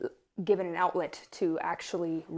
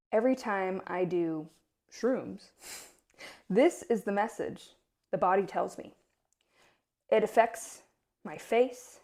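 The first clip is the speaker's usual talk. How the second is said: reading a journal. Acted. Reads her journal entry.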